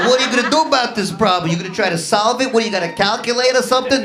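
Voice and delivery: fast, pushy taunt; mocking challenge. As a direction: rattle off the taunt. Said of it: "Israeli guy".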